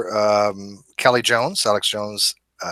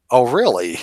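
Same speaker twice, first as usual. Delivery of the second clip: lightly imitated British accent, falling; a hint of mock British. Quoting the debater's reply to Alex, lightly British. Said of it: "In his British, you know, accent now".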